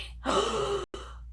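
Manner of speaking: sharp airy gasp of awe; soft high gasp of delight; whispered gasp. Real, not acted. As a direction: gasp under your breath. Admiring makeup on stream.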